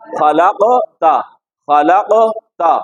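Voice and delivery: खलकता drawn out very slowly, syllable by syllable; slow careful recitation. Shown as a demonstration. A teacher reciting slowly so the child can copy. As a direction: stretch each sound of खलकता. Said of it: "क्या पढ़ेंगे?".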